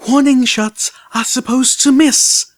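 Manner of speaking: high, slow, stern rebuke; stern bark. Acted. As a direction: scold him sharply and slowly. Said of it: "Velvet Remedy barked sternly".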